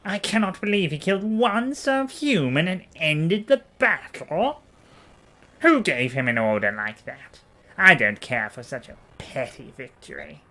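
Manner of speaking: irritated, sneering senator; scornful, fussy aristocrat; angry noble. Acted.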